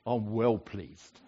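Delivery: a playful touch of Cockney, said slowly; light Cockney accent. Shown as a demonstration. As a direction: drop into a hint of Cockney on "I'm well pleased". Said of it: "in a kind of Cockney accent".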